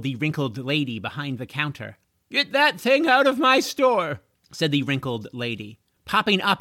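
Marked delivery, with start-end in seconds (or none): 2.3-4.2 high, loud shopkeeper outrage; indignant order. A narrator's reading. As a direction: order the intruder out forcefully. Shopkeeper swinging bat at dragon.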